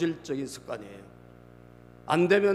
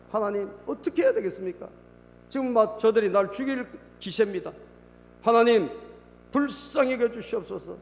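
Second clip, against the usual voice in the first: higher-pitched pleading to God; Moses crying out; 7 semitones higher than usual. Acted. Moses begging God for mercy from the angry people, crying out. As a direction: plead upward as a desperate Moses. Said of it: "모세가 주님께 부르짖었다".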